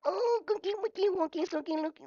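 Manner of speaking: put-on high cooing baby babble; squeaky high goo-goo gaga baby voice; mock baby talk. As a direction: coo like a grown man playing baby. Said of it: "him being a baby on voice".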